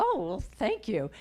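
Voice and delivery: retold flustered thanks, pitch lifted. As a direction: lightly imitate someone caught off guard by a compliment. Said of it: "she gets kind of flustered".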